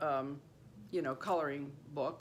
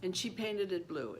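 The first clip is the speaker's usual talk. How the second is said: normal talking voice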